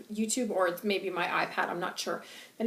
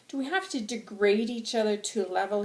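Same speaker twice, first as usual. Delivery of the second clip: impassioned rhetorical pleading; angry, passionate; 2 semitones higher, 3 dB louder than usual. Acted. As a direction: challenge the crowd with indignation. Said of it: "I'm very angry and I'm very passionate".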